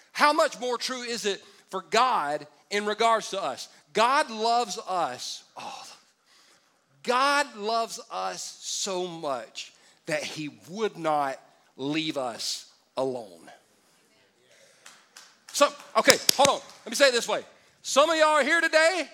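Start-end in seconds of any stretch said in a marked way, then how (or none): 3.9-13.5 slow tender emphasis. Real, not acted. 17.8-19.1 raised preaching call. Real, not acted. Preacher calls out congregation.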